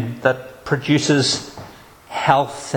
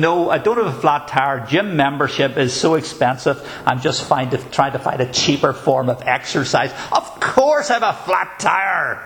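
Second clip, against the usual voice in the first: dry mock-sarcastic reply, rising to a pitched-up finish; sarcastic retort. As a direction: answer the obvious question with heavy sarcasm. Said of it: "you feel like saying to them".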